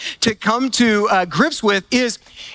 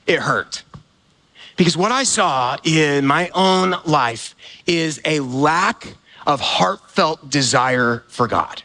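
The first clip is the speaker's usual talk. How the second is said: sorrowful confession; 7 semitones lower, slower than usual. Real, not acted. Confessing hurt to congregation.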